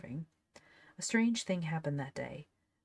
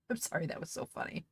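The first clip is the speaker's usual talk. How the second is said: laughing; 3 dB quieter, faster than usual. Real, not acted. Reader cracks up at text.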